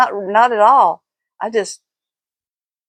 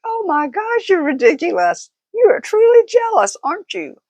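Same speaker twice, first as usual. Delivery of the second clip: higher imitation of the husband, laughing as he says it; 11 semitones higher, 4 dB louder than usual. Husband laughing off his wife's jealous threat, imitated laughing. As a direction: mimic his amused disbelief through laughter. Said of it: "He started laughing".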